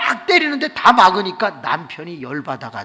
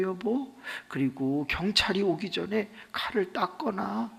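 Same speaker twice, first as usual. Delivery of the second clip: lightly voiced soft pleading wife; tender wife; 3 semitones higher, 6 dB quieter than usual. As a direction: speak gently as a loving wife saying goodbye. Wife's tender farewell.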